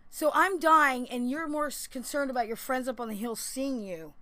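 loud, high angry cry at the man paddling off; angry outburst. Retold or imitated. Yelling at the rich guy pulling off, angry. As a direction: shout it, stung that he won't help. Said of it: "I got mad".

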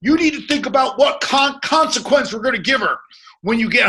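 a hint of his wife laying down the law; mock wife voice. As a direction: lightly play the bossy wife. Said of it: "My wife says".

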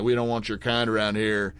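lightly put-on Southern accent. Shown as a demonstration. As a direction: say it with a Southern twang. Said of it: "doing, like, a Southern accent".

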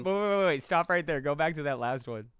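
loud, high, stop everyone now; loud urgent stop. Real, not acted. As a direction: cut in loudly to halt the list. Urgently stops the list.

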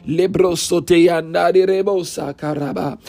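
fervent glossolalia burst; speaking in tongues. Real, not acted. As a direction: flow into tongues mid-prayer. Speaking in tongues mid prayer.

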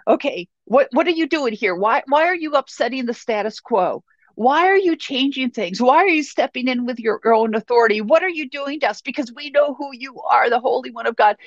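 a touch of a demon losing its footing; shaken, worried demon. Acted. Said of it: "all shaken up and he's worrying".

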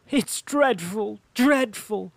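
distressed cry, high and loud; tearful princess. Acted. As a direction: lament it loudly, drawing out the words. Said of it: "her face was tearful".

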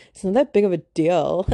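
put-on dismissive dude voice, Valley Girl style. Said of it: "you like my, like, Valley Girl dude voice?".

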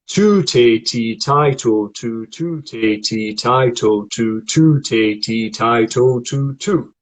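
crisp "Tu, te, ti, tai, to, tu" in rhythm; T-sound vowel cycle. Shown as a demonstration. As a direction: hit the T on every vowel. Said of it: "I might go".

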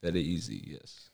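mock Russian accent, clipped and firm. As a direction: put on a thick Russian accent. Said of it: "I can do Russian".

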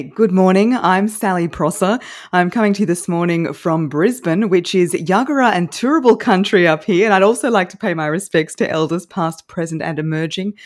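crisp TV news anchor read; news reporter voice. Shown as a demonstration. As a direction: announce it like the evening news. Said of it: "in a news reporter voice".

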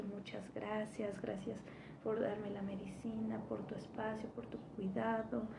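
soft, slow, sincere thanks; heartfelt thanks. Retold or imitated. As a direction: thank him softly from the heart. Thanking the man while crying. (agradecimiento suave y sincero)

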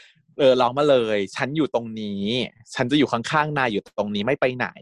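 calm him down tenderly; gentle comfort. Retold or imitated. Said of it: "แล้วก็บอกว่า".

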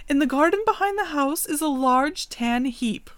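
the raven giving the man instructions; raven princess. Acted. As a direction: keep the enchanted girl's voice.

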